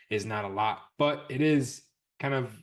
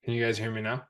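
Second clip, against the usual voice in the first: ventriloquist, lips not moving; talking with mouth closed; faster than usual. Shown as a demonstration. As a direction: speak without moving your lips. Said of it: "talk without moving my lips".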